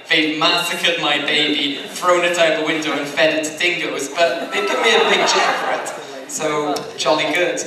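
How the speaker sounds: lightly hammed-up complaint of a betrayed author; mock Toriyama inner voice. Panelist voicing the author's private reaction, mock aggrieved. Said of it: "which is a polite way of saying".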